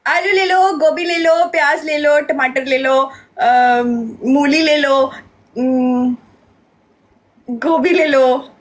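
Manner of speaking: sing-song street seller calling; vegetable vendor call. Pretend. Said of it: "बोलो, बोलो, बोलो।".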